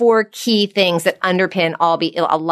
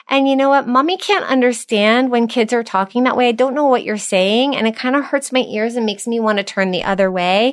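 gentle mother voice; 5 semitones higher than usual. Shown as a demonstration. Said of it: "And I would say".

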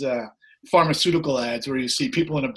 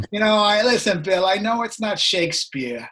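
put-on New York accent; 4 semitones higher than usual. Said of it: "He's got New York accent".

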